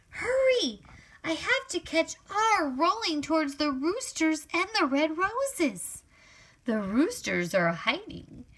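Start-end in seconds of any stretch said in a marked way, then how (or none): 0.1-6.0 hurry. Acted. Chasing R in story.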